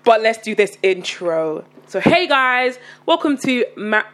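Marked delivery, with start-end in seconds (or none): 0.0-1.6 slow tired. Real, not acted. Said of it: "I'm talking very slow".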